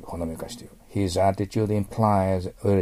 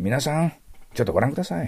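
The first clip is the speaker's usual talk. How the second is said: presenter addressing audience; 5 semitones higher, faster than usual. Shown as a demonstration. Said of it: "例えばこういう感じですね".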